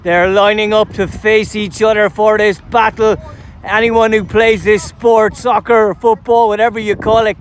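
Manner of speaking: big-occasion sports announcer introducing the teams; match commentary. Acted. Commentator presenting both teams before kick-off, live announcer delivery. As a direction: call the line-ups like a live final.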